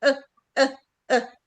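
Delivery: short, unstressed اه, a neutral uh; isolated schwa. Shown as a demonstration. Teacher demonstrating the schwa sound, short neutral uh. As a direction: say اه as a brief lax schwa. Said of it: "النطق اللي قبل الاي على طول".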